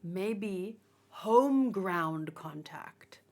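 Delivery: slow whispered aside; hushed joking aside. Real, not acted.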